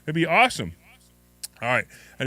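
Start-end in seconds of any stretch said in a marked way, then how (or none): 0.1-0.7 loud, gushing excitement; bursting with glee, laughing through it; giddy. Real, not acted. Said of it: "I'm, like, so excited".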